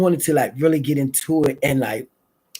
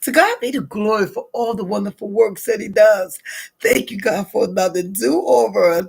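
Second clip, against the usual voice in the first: prayer. Acted. Morning prayer of thanks.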